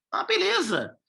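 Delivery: a sudden high cry of relief; excited relief. Pretend. Consultant voicing a relieved mayor, excited high. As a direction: pop up high like things finally worked out.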